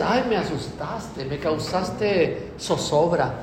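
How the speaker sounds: slow, soft, prim little exclamation; prim mock fright. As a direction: act delicately startled, drawing it out. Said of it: "No dices". (susto remilgado, lento y suave)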